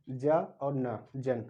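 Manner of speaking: ज and न apart, then joined as जन; sound by sound. Shown as a demonstration. Teacher breaks down the suffix, ज, न, then जन. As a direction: build जन from a voiced "ja" and "na". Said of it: "उसका भी pronunciation क्या है".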